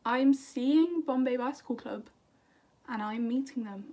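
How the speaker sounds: thrilled announcement of the concert. Shown as a demonstration. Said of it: "Can we just".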